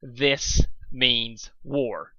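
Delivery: very slow menacing hiss; harsh whisper. Acted. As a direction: drag each word out coldly. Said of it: "in a harsh whisper".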